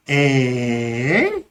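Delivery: drawn out low, then swooping up; surprise. Shown as a demonstration. Responding to news that Bola just landed, drawn-out surprise. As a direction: stretch it into a disbelieving question. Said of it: "It's like a surprise, right?".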